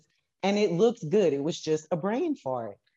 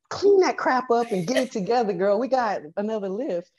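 mock stern; 6 semitones higher than usual. Coach's stern inner voice.

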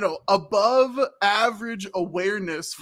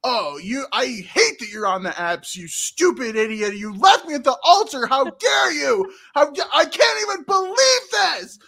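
hammed-up furious outburst; mock rage at the ex, rising to a shout; shrill sobbing outrage; 3 semitones higher, 3 dB louder than usual. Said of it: "you can't be like".

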